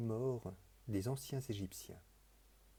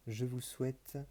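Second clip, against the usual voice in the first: ordinary delivery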